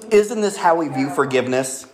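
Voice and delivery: talking with a mouth full of candy; eating sour candy. Real, not acted. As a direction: speak around a sour candy. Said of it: "swallowing a lot 'cause our mouth's watering".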